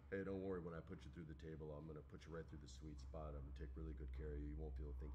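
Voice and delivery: low, hushed aside to calm someone; quiet reassurance. Retold or imitated. Wrestler privately calming his opponent before the table spot, low and soft. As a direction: keep it down and soothe him, imitating the wrestler.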